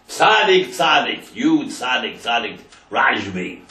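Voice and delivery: a desperate appeal that fades as it goes; pleading cry. Retold or imitated. Mother begs the Rashbi at his grave, a crying plea that fades. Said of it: "she started to wail and to cry".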